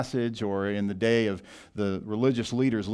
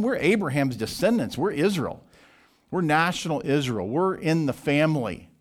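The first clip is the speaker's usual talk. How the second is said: mock-indignant Pharisees answering Jesus; antagonistic retort; 4 semitones higher than usual. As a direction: throw it back at him with contempt. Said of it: "You see the antagonistic, uh, rejecting response".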